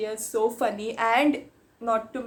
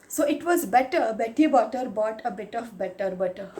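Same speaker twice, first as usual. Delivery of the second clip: tongue twister recital. Shown as a demonstration. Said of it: "The next tongue twister".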